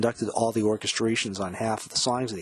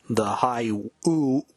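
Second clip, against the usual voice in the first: high ooh; 4 dB louder, much slower than usual. Retold or imitated. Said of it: "woo on the studio version".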